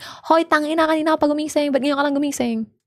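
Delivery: really loud, high yelling in Tagalog. Describing being woken up, the speaker retells someone yelling loudly in Tagalog. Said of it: "really loud voice".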